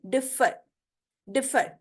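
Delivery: डिफर with a slightly lengthened फ; drawn-out f in differ. Shown as a demonstration. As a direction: hold the फ in डिफर a little longer. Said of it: "फ की आवाज थोड़ी सी long हो रही है". (फ को थोड़ा लंबा खींचकर डिफर)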